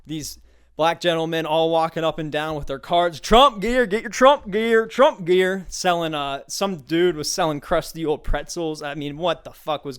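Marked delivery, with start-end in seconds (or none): 3.2-5.7 vendor hawking. Retold or imitated. Vendors hawking Trump gear.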